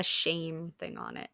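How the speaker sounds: hushed shame label; whispering. Pretend. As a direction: breathe it like a secret. Suggesting shame label for bottle.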